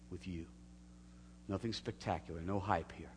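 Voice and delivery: earnest prayer voice; spoken congregational prayer. Acted. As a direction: pray it earnestly. Leads prayer.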